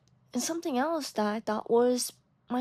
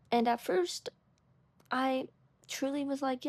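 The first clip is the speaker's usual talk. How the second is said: retainer-thickened speech; wearing a retainer. Real, not acted. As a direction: talk around a retainer. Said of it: "I'm wearing my retainer".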